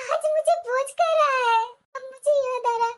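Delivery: tearful. Acted. Daughter near tears over brother.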